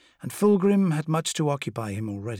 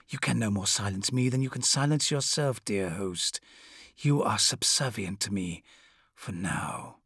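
nightmare spirit; 3 semitones lower, 4 dB quieter than usual. Acted. Demon voice continues.

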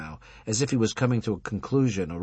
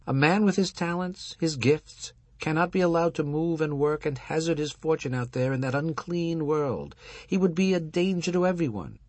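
raised, lecturing rabbi voice; old rabbi voice; 8 semitones higher than usual. Acted. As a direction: preach it like an aging rabbi. Husband rabbi voiced higher.

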